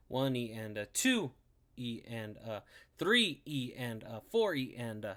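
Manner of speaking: counted out slowly, beat by beat; slow, deliberate count of the sixteenths; slow spoken count. Shown as a demonstration. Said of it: "and it's played like this".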